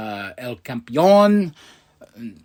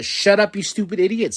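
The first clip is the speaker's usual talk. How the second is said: mock snapping insult; 5 semitones higher than usual. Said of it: "she has the hugging side".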